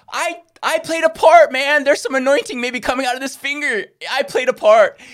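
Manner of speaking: insistent. Real, not acted. Preacher defending his small part, loud and insistent. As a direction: stand firm on it.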